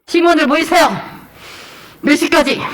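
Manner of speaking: loud, high mock summons; self-important team leader. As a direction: imitate a new team leader ordering people about. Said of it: "자기가 팀장님 됐다고".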